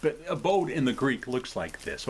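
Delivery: usual speaking voice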